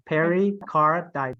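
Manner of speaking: "pericarditis" slowly, starting PAIR-ee; peri, not per. Shown as a demonstration. Teacher modelling the corrected word, slow PAIR-ee start on "pericarditis". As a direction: open "pericarditis" with two syllables, pair-ee. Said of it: "it's peri".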